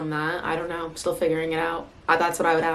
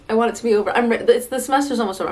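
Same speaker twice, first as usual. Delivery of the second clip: whiny; 5 semitones higher, 6 dB louder, much faster than usual. Retold or imitated. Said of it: "because I'm like".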